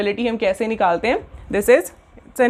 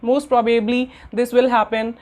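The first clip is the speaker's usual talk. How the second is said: slow dictation; much slower than usual. Shown as a demonstration. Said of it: "तो प्रोबेबल".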